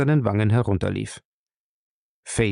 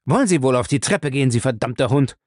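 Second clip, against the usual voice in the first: angry shout. Acted. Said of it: "rief er Lacey wütend an".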